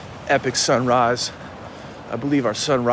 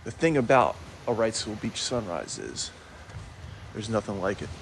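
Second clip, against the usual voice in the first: soft, spaced-out host delivery; hushed show intro; 3 semitones lower, 10 dB quieter than usual. Real, not acted. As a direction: introduce the sunrise softly, pausing between phrases.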